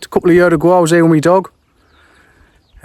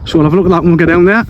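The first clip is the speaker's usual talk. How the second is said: panting out of breath on a climb; breathless words between breaths; faster than usual. Real, not acted. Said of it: "Sorry, I'm out of breath".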